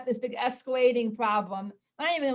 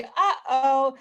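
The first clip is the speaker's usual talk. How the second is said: louder two-note singsong; parental uh-oh; 7 dB louder than usual. Shown as a demonstration. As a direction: call it out to a child without anger. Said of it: "you say".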